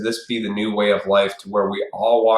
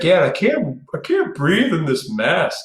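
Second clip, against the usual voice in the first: higher mock whiny voice; imitating cashier; 7 semitones higher than usual. Cashier in a mask telling him she can't breathe, mock high whine. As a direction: squeak out her mask complaint. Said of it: "she's like".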